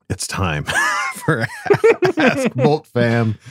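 announcer shout. Acted. Announcing the show segment.

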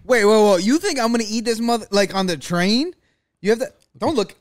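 high, loud protest; loud sharp voice. Real, not acted. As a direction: shout it out, outraged. Outraged at being filmed eating.

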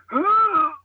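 high gasp mimicking a retch; mock gagging gasp; imitated dry heave. Telling how the man in front heaved, imitated retching. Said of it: "dry heaving".

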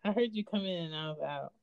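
cutting-in-and-out call audio; bluetooth headset mic. Real, not acted. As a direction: voice over a dropping connection. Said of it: "it's still going in and out".

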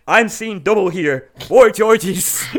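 slow, drawn-out commentator line; mock commentator. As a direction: do it like a cheesy announcer. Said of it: "all I could think of was".

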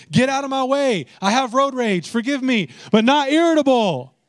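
building from loud complaint to high, loud road-rage outburst; mock exasperated rant. Mock prayer rant about crowds.

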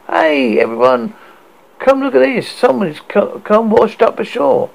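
high, loud call across the beach. Acted. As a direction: shout it through cupped hands. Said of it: "put his hand in his mouth like a horn and called".

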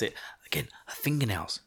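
unvoiced hushed whisper. Real, not acted. Vlogger telling viewers about the snake lady, whispering. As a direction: whisper it like a spooky secret. Sudden drop into hushed aside.

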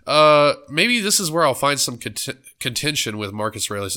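talking through a blocked nose; congested, stuffy voice; stuffed-up nose. Real, not acted. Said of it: "I'm a little stuffed up".

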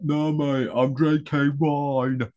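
imitating his accent, a bit off; lightly put-on Aussie-style accent; mock accent. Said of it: "Which I assume is your accent".

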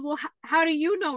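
put-on high, indignant child; indignant kid. Son questioning sister, high and indignant. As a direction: challenge her, puzzled.

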